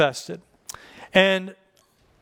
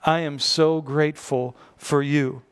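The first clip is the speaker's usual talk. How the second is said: sincere gratitude; 4 semitones lower than usual. Shown as a demonstration. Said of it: "Who do you need to say".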